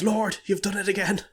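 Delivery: high, loud cry up to heaven; mock exultant prayer. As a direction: proclaim a miracle to the Lord. Priest cries up to heaven in joke.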